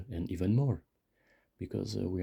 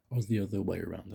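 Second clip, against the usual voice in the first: quick whispered afterthought; whispered aside; faster than usual. Real, not acted. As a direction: whisper it fast to yourself. Muttered aside to self.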